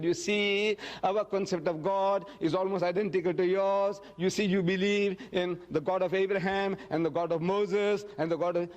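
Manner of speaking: mildly rambling, run-on explaining; stalling explanation. Acted. Speaker imagining an unready Prophet talking round the question, mildly fumbling. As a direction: talk on while gathering thoughts. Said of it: "This is how we all talk".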